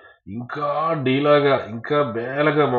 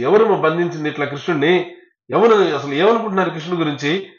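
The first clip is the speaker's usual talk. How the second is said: angry demand; 4 semitones higher, 4 dB louder than usual. Acted. Balarama keeps shouting at Yashoda.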